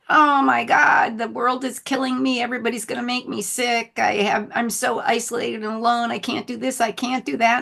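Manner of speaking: half-mocking panicked whine, starting with a shout. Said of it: "everybody freaking out about".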